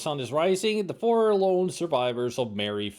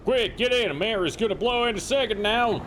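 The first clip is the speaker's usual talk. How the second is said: shout; 8 semitones higher than usual. Acted. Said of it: "Carter shouts from the helicopter".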